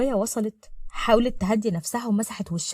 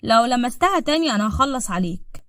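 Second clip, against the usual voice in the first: firm, slightly raised threatening voice; angry threat; 3 semitones higher, 4 dB louder than usual. Acted. Salem pulls her away from Saeed, threatening him angrily. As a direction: warn him off with controlled anger. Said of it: "وهو بيقول بغضب".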